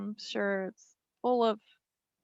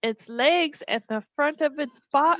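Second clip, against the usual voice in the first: sexy voice; 3 semitones higher than usual. Pretend. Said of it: "you went from spooky to sexy real quick".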